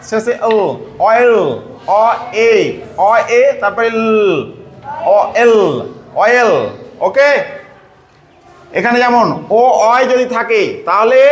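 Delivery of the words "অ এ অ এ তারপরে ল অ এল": "অ", "এ", then "ল", separated by pauses; sounded out in parts. Shown as a demonstration. Teacher explaining oi in oil, "অ এল" said piece by piece. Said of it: "ও আই থাকলে অয়ে".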